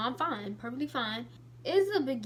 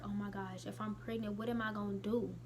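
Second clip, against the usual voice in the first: scared; 3 semitones lower, 7 dB quieter than usual. Retold or imitated. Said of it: "So I was scared".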